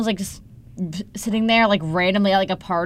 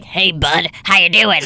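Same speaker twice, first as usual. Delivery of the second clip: scary stranger; 3 semitones lower, 3 dB louder, slower than usual. Acted. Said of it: "Like, that's scary".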